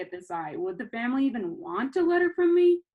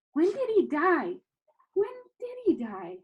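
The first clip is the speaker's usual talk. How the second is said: mounting alarm; 8 semitones higher than usual. A narrator's reading. Rising alarm, internal thought.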